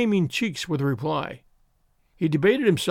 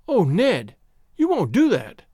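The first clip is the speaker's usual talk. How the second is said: raised, pleading protest; alarmed; 5 semitones higher, 4 dB louder than usual. A narrator's reading. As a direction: beg him in alarm not to do it. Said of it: "she cried out in alarm".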